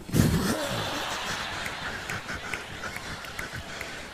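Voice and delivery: breathy airy laughter; real laugh. Real, not acted. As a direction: laugh off the blunder. Laughing at own Spanish mistake.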